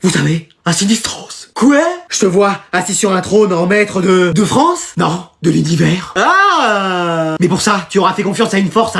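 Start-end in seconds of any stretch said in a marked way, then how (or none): 0.0-6.1 slow mystic seer. Acted. Fortune-teller mystic prophecy.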